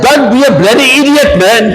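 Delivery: a hint of an angry shout; mild mock yell. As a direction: snap at him in a half-playful retelling. Retold insult to driver.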